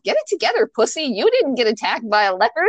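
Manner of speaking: mock scolding. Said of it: "I'm telling myself".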